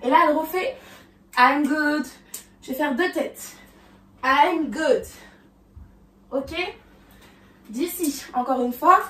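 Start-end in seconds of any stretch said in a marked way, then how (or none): 1.4-5.0 I'm good a bit louder; sassy I'm good. Acted. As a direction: say it with attitude. Demonstrating the move's line. (I'm good avec attitude)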